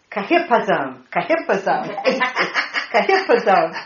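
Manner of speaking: testing how Kahipazon sounds, stress on the middle; sounding out a word. Shown as a demonstration. Teacher sounding out Kahipazon for the class, carefully. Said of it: "Hebrew scholars ... are laughing at me".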